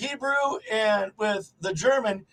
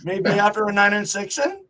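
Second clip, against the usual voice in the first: put-on old Yiddish speaker; 3 semitones lower than usual. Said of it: "a little old Jewish guy speaking Yiddish".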